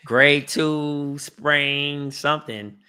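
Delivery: very slow, drawn-out mock diagnosis; dragged-out, dubious recital of an excuse; mock injury report. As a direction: stretch out each word sceptically.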